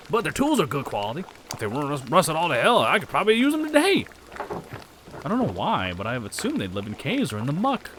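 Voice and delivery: lightly put-on rustic accent; accented townsperson. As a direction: gossip about granddad in an accented character voice.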